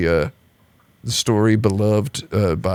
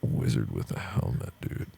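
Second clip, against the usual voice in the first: much lower, lazy stoner voice; stoned Toriyama; 12 dB quieter than usual. Retold or imitated. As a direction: voice a stoned artist. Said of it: "and says".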